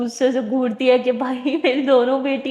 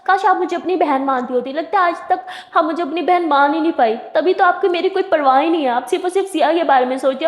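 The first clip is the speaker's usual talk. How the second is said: emotional plea; 3 semitones higher than usual. Acted. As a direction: make her feel guilty, voice rising with hurt. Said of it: "बहुत ज़्यादा emotional बातें करने लग जाती है".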